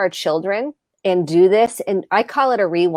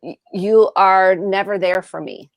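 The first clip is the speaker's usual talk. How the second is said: sincere apology; slower than usual. Shown as a demonstration. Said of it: "acknowledge and listen to their pain".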